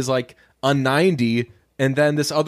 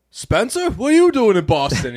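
much higher, shrill startled call of his name; high mock outrage at the returning hero; mock surprised local; 7 semitones higher, 3 dB louder than usual. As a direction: yelp it like a shocked Boston local. Locals confront Spencer on return.

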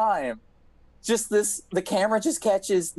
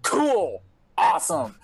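sarcastic resignation; 2 semitones higher than usual. Retold or imitated. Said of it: "I'm like".

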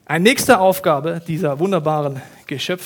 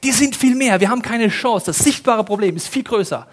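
despair; 4 semitones higher than usual. Acted. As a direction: panic about being outnumbered. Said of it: "Vollkommene Verzweiflung". (verzweifelt, hoch und laut, Betonung auf „Chance“)

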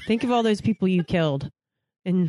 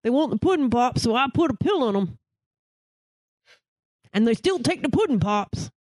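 higher, hammed-up Cosby impression; Bill Cosby; 3 semitones higher than usual. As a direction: sell the pudding pops like Cosby. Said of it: "turned into Bill Cosby".

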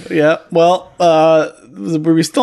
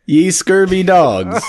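pirate voice; slower than usual. Pretend. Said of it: "sea captain".

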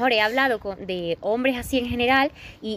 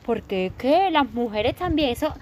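mock whiny guy; slower than usual. Mocking the offended male friend.

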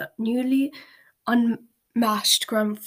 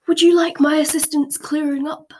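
politely; 5 semitones higher, 8 dB louder than usual. A narrator's reading. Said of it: "asked Dumbledore politely".

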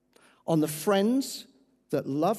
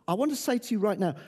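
gentle appeal. Acted. Soft altar call appeal.

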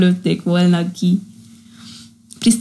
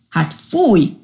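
disgusted; 9 semitones higher, much slower than usual. Acted. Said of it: "fintorogva az egybegyűlt tengeri állatok".

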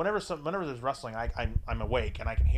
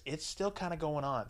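softly imitated secret; hushed confession; 3 semitones higher, 5 dB quieter than usual. Girlfriend admitting the date hasn't ended, hushed. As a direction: admit it under cover, keeping it soft. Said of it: "Why are you whispering?".

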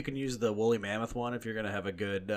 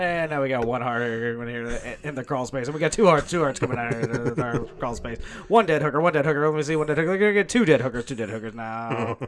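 loud, higher, gleeful counting; gleeful shouting; 3 semitones higher, 8 dB louder than usual. Acted. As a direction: cackle out the body count. Gleeful mock serial killer counting.

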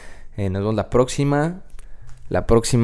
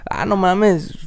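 feigned surprise; 5 semitones higher than usual. Retold or imitated. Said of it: "puedes fingir demencia".

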